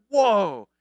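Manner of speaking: hammed-up awe at a star pupil; awestruck. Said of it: "you're gonna be so awestruck".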